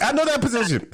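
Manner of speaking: high squeaky put-on dog voice; lightly cartoonish dog talking; mock dog voice. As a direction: voice the dog as if it knows. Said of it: "She's like".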